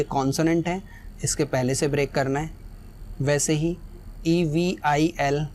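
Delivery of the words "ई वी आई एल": letters spelled out one by one, slowly; slow spelling. Shown as a demonstration. Teacher spells the word letter by letter, slowly. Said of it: "spelling out the word evil".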